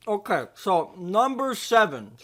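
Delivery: talking through a mouthful of food; words round a bite of food; mouth full. Real, not acted. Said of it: "Sorry, I got food in my mouth".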